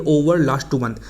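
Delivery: slow, careful example read; slow model sentence. Shown as a demonstration. Teacher reads the wrong version slowly to students. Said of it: "ऐसा बोलूँगा कि".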